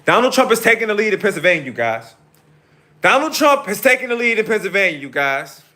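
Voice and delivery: loud, high, fast election-night yelling; thrilled, blurting the news out; excited shouting. Real, not acted. Streamer to viewers, shouting excitedly about results.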